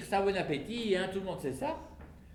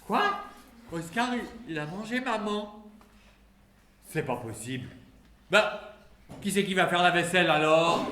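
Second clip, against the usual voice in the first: mock shock; 3 semitones higher, 3 dB louder than usual. Father shocked that Oscar ate mum. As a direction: gasp it out in disbelief.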